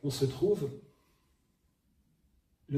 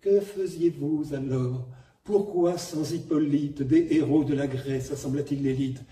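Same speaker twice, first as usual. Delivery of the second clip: contained vibrato. Retold or imitated. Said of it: "cette espèce de vibrato contenu".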